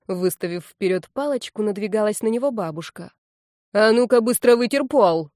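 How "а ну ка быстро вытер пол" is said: a sharp, loud order, pitched up; scolding shout. Acted. Granny orders the man to wipe the floor, shouting. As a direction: bark the command to wipe the floor.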